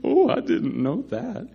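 Paul feigning ignorance before the high priest, sarcastic. Retold or imitated. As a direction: feign surprise, dripping with sarcasm. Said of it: "Paul's sarcasm in front of the Sanhedrin".

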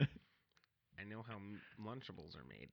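whisper-threaten like a pint-sized villain; hammed-up tiny tough guy; mock menace.

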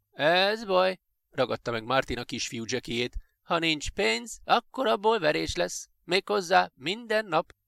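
high-pitched, needling menace; bully's threat. Acted. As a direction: threaten the little kid. Bully threatens a small boy.

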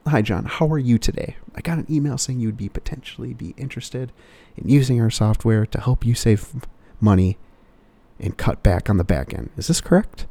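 salesman pitch voice. Retold or imitated. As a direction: act the eager salesman on the phone. Role-played sales call to client.

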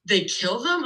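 put-on an eight-year-old asks mom about anesthesia, mildly shocked; shocked question. Retold child's alarmed question.

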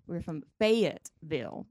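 Fayetteville spelled out slowly, every syllable clear; over-enunciated Fayetteville. Retold or imitated. Host mimicking newcomers' slow careful enunciation. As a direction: carefully pronounce each part of Fayetteville. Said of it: "they enunciate and they go".

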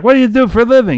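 high-pitched game-show host question; Bobby Van. Retold or imitated. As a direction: imitate an emcee chatting up a contestant. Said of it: "then Bobby Van is talking to this woman".

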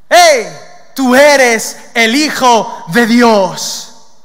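sharp loud hail, then slow booming cry; loud, drawn-out proclamation; demon's shout. Acted. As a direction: bellow it very slowly as a kneeling demon. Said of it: "lo estaba diciendo un demonio".

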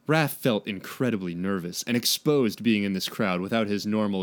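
low, even read-aloud narration; story narration. A narrator's reading. Reads the story.

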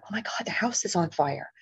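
breathless whispered alarm; whispered panic. Retold or imitated. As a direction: whisper it in sudden fear. Inner panicked thought.

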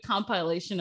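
"compilation" sounded out syllable by syllable; careful odd pronunciation. Real, not acted. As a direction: say each syllable of "compilation" separately. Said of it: "whenever you say that word".

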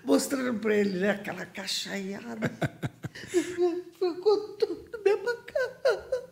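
half-laughing, half-crying, pitch cracking high and slow on the last line; laughing through tears. Real, not acted. Telling the interviewer how she broke down at the airport, laughing and crying. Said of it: "E eu chorava tanto".

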